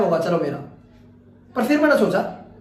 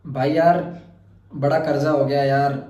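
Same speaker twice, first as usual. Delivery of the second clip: mock-serious worry; 6 semitones lower than usual. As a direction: ham up a kid's big money worry. Dramatic kid worries to friend. (नकली गंभीर चिंता, धीमी भारी आवाज़)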